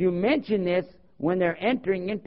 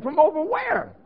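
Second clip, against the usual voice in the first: acted bafflement; 11 semitones higher, 3 dB louder than usual. Acted baffled reply to the lady.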